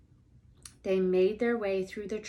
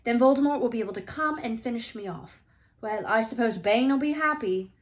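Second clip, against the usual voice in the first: louder and higher, anxious; feverish, much louder; 4 semitones higher, 7 dB louder than usual. A narrator's reading. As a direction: talk on in a nervous fever. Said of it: "Harry went on feverishly".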